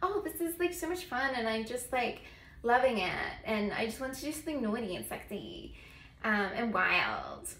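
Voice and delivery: lightly played naughty, eager escort; naughty adventurous eighteen-year-old. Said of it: "kinda like a naughty, adventurous eighteen-year-old".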